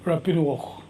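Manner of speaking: Rapinuok said carefully as rah-pee-nwok, falling at the end; native term. Shown as a demonstration. Navigator teaching the interviewer his title, pronouncing it carefully. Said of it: "we call it".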